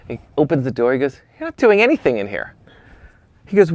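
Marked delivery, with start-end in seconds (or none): 1.4-2.5 high-pitched imitation of a thick accent; Gilles Bensimon's thick accent. Famous photographer dismissing a beginner's setup, in a thick accent. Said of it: "with his thick accent".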